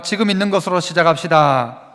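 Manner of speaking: measured, declaimed call to repeat; slogan for repeating. Shown as a demonstration. Preacher leading congregation in repeating the point, measured call. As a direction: lead the room in saying it together. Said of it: "또 따라 해봅시다".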